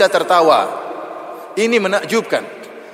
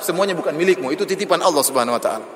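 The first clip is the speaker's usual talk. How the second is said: mock rude demand. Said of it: "kalau kita bilang".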